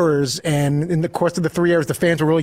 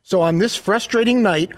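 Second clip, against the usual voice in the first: bouncy limerick lilt. Acted. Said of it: "here's Todd Fritz with his, uh, limerick".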